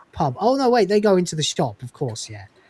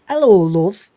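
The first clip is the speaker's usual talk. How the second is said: Northern hello; 3 semitones higher, 7 dB louder, slower than usual. Retold or imitated. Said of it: "very British".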